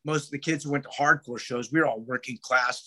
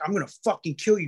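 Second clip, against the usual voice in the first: fast, higher mock threat; quick imitated death threat; retold threat; 4 semitones higher, faster than usual. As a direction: rattle off the threat as he retells it.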